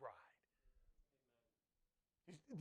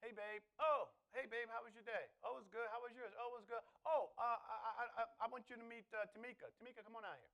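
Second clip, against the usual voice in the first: playful skit; 2 semitones higher, faster than usual. Pretend. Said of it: "It would be like Monique coming home".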